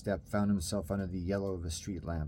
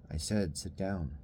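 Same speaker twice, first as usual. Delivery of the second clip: firm command. Acted. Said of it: "the firmness of the voice".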